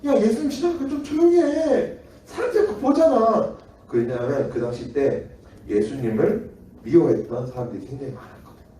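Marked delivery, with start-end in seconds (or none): 0.1-3.6 1 kind hushing neighbour. Acted. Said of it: "착한 사람이 이렇게 말했어".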